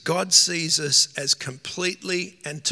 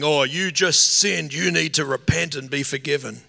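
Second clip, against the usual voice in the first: accusing voice; 4 dB louder than usual. Retold or imitated. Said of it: "that's not the Holy Spirit saying".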